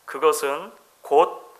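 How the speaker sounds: slow, measured reading of verse; poem recitation. Acted. Preacher closing with a poem to the church, measured recital. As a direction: recite it slowly, weighing each phrase. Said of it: "시가 이렇게 이야기를 해요".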